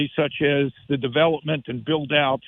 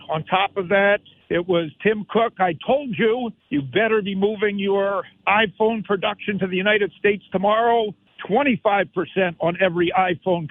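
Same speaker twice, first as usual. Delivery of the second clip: theatrical voice; 4 semitones higher than usual. Acted. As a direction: ham it up like a stage drama. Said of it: "by my somewhat theatrical voice".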